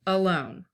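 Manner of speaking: ALONE with a light uh, weight on LONE; unstressed then stressed. Shown as a demonstration.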